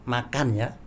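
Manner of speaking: offering food. Shown as a demonstration. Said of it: "kedatangan teman, tamu".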